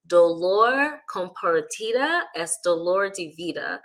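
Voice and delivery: slow Spanish, in a non-native accent; careful, drawn-out Spanish accent. Real, not acted. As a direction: quote the saying slowly in learner's Spanish accent. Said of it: "forgive my Spanish accent".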